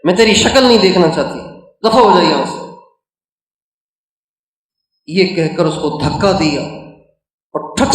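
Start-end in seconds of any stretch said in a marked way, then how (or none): 0.0-2.7 retold furious mother, raised and sharp; mock shout at the son to get out; sermon-style imitation of an enraged mother; angry mother shouting. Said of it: "ایسی غصے میں بھری ہوئی".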